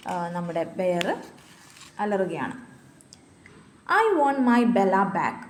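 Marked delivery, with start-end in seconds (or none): 4.0-5.4 put-on child's cry, a little louder and slow; mock shout. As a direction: call out for the teddy, hammed up lightly. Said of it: "Lily shouted". (Teddy തിരികെ ചോദിച്ച് ലില്ലി ഒച്ചയിടുന്നു)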